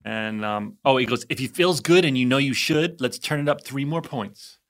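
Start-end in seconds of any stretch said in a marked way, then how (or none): 1.3-4.6 loosely imitated British instructor catchphrase; light, imperfect British accent. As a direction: attempt a British fitness-coach accent. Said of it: "Not doing the British accent justice".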